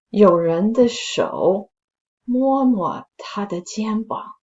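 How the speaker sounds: slow, suspenseful storytelling voice; story narration. A narrator's reading. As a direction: build the creepy tension slowly. Reads a spooky story aloud.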